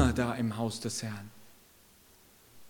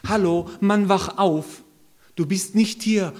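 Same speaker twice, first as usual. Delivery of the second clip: loud, higher shout to rouse a sleeper; wake-up call; 5 semitones higher, 7 dB louder than usual. Acted. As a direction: shake him awake with your voice. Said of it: "macht mal kräftig so".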